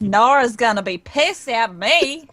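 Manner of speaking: openly voiced worry, not muttered; Mila's voice. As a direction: echo it aloud as Mila. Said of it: "Mila mutter under Al's breath".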